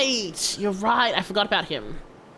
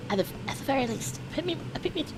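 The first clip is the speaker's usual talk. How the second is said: voice cracking; 8 semitones higher, 4 dB quieter, faster than usual. Real, not acted. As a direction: voice breaking on the try. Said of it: "my fucking voice is cracking".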